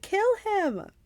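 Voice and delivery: high, loud yell. Acted. Clarice pushing Percy to strike, loud yell. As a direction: urge the kill at full cry.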